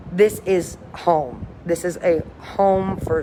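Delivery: very slow, heartfelt and sincere. Real, not acted. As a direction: let it land slowly, from the heart. Heartfelt line about the ship.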